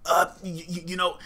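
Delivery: lightly voiced fumbling husband; hesitant husband. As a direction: stumble over the start like a nervous husband. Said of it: "He's trying to be thoughtful and helpful".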